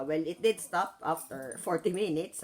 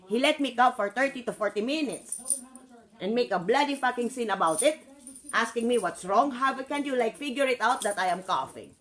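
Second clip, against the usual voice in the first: a raised, indignant tirade; angry inner rant. Retold or imitated. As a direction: fume at him in thought. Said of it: "it's like I was thinking".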